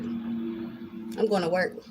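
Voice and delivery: drawn-out slow repeat. Retold or imitated. Repeating to her son she's busy, slowly drawn out. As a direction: stretch each word out deliberately.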